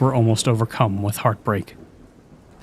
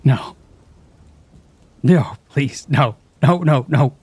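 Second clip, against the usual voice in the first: higher, pleading sobbing no's; 4 semitones higher, 3 dB louder than usual. A narrator's reading. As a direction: beg through tears. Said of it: "I sobbed".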